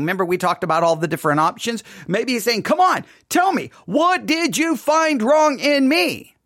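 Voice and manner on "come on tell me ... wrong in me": high, insistent demand for an answer; genuine demand. Acted. God inviting the people to answer, demanding. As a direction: press slowly for a real answer. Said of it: "maybe he's not asking such a rhetorical question".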